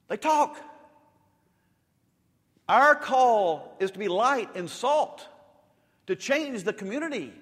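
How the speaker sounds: loud, high, slow proclamation; full-force preaching. Real, not acted. Pastor declaring the church's calling, loud slow preaching. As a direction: proclaim the calling, stretching each word.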